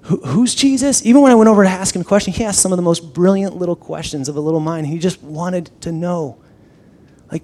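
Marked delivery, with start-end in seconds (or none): 0.0-1.0 surprised quote. Retold or imitated. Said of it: "they're like".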